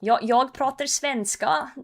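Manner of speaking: slow, lilting mock Swedish sing-song; imitating Swedish. Streamer shows chat how Swedes talk, mock Swedish lilt. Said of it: "Swedes speak a little bit like this".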